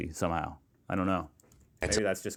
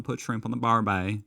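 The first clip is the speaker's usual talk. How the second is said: mock Australian accent; 3 semitones higher than usual. Attempts stock Aussie phrase.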